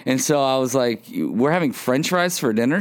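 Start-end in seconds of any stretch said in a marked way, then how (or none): 1.1-2.8 retold child's question, rising at the end; lightly acted kid checking on dinner. Kid asking mom about french fries for dinner, mildly questioning.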